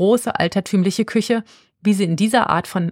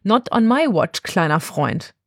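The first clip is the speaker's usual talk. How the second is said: scoffing laugh; 3 semitones higher than usual. Acted. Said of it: "Befana lacht auf".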